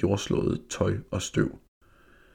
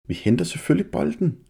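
confident; 9 semitones higher than usual. A narrator's reading. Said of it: "sagde Jakob selvsikkert".

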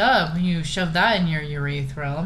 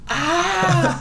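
retold yelp; 10 semitones higher, 3 dB louder than usual. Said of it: "all of a sudden he goes".

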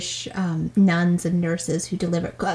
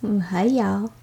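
put-on Southern girl accent; 4 dB quieter than usual. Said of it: "You like Southern girls".

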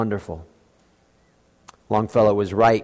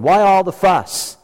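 incredulous exclaim; 9 semitones higher, 5 dB louder, slower than usual. Real, not acted. Pastor mocking Herod's panic over a baby, incredulous. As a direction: pitch leaps up, drawn out and louder. Rhetorical question in sermon.

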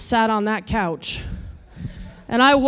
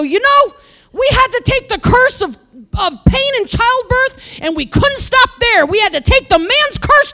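much higher, loud shouting tirade; furious rant; 8 semitones higher, 6 dB louder than usual. Retold or imitated. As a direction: yell it all out while pacing the loop. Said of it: "I am so mad at this point".

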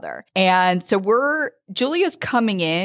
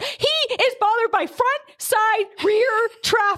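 much higher, fussy warning voice; mock fussy warning; 13 semitones higher than usual. Rider warning crowded arena, high fussy mock voice. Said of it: "I was like".

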